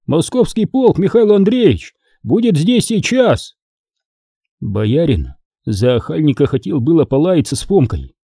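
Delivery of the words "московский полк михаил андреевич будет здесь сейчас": high-pitched aside meant for all ears; carrying aside, pitched well up; pointed aside. A narrator's reading. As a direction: announce it as if casually, so everyone hears. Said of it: "прибавил негромко, но так, чтобы все слышали".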